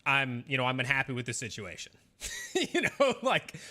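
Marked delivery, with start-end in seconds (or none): 0.0-1.9 flat, even monotone delivery; deadpan monotone statement of displeasure. Shown as a demonstration. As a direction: say it with no rise or fall at all. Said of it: "like, monotone and just be like".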